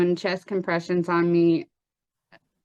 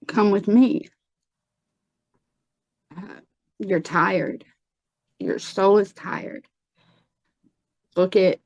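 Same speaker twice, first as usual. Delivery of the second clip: slow, gentle, inviting tone; soothing voice. Retold or imitated. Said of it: "a voice like caramel, rich, just soothing".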